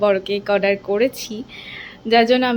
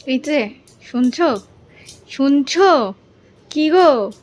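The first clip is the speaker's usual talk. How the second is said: calling out; 4 semitones higher, 5 dB louder, slower than usual. Real, not acted. Waking husband at midnight.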